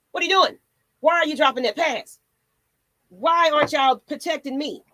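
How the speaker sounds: high, loud exasperated shouts at the team; frustrated yelling. Real, not acted. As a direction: yell at them for dropping it. Ranting at players over dropped passes.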